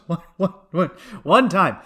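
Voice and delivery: halting, badly faked Central American accent. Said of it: "trying to do the Spanish Central".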